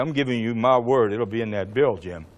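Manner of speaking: low, hushed promise; quiet assurance. Retold or imitated. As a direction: give your word privately, low and soft. Retold private assurance to colleague.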